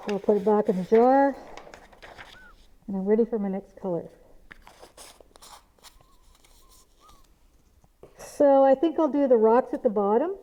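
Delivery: muffled speech behind a dust mask; through a face mask. Real, not acted. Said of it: "this is what I sound like with a mask on".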